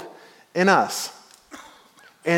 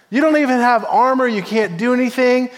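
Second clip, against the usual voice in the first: higher-pitched mild scoffing; dismissive; 5 semitones higher than usual. Acted. King Saul sizing up unarmed David, dismissive. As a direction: wave the boy away, lightly acted. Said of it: "He's ready to dismiss him".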